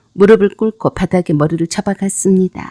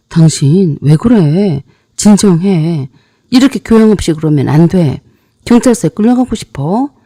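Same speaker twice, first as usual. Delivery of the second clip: lightly voiced pleading husband. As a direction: plead with her to calm down, half-hearted. Husband pleads with his angry wife. (아내를 말리는 남편, 살짝 당황한 목소리)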